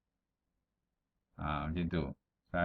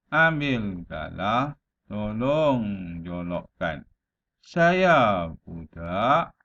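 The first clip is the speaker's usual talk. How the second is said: slow, measured verse with lilting line ends; pantun recitation; slower than usual. Shown as a demonstration. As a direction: recite the rhyme with stretched vowels and short pauses. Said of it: "Melafazkan pantun".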